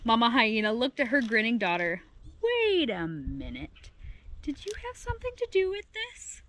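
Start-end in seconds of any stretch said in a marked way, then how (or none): 2.4-6.4 dawning suspicion. A narrator's reading. Mama Hyena to her grinning daughter, dawning suspicion. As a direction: draw out the words, then lift into a hushed question.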